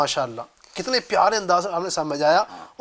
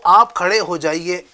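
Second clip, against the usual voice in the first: polite request. Shown as a demonstration. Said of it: "میں کہوں".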